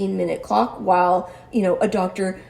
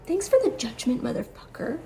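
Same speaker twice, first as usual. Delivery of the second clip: higher sarcastic thanks, then dropping quiet on the curse; sarcastic jab; 3 semitones higher, 5 dB quieter than usual. Real, not acted. Patient finally telling off the judgmental doctor, sarcastic. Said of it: "I didn't say this to him, but I'll say it now".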